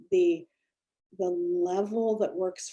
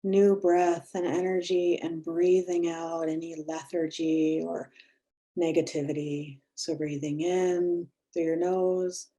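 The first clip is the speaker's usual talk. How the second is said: guided breathing. Acted. Leads a breathing exercise.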